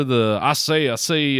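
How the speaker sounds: lightly imitated blustery cartoon rooster; a hint of Southern cartoon rooster; quick, light rooster catchphrase; Foghorn Leghorn. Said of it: "Oh, Foghorn Leghorn".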